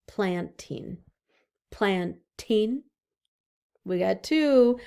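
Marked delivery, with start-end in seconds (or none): 0.1-1.0 Planting split into plant and ing; syllable split. Shown as a demonstration. Teacher to kids, counting syllables. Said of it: "What about planting?". 1.7-2.8 Planting split into plant and ing; syllable split. Shown as a demonstration. Teacher to kids, counting syllables. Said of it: "What about planting?".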